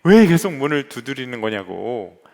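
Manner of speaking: a hint of a furious snap at the door; retold angry outburst. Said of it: "버럭 화를 냈답니다".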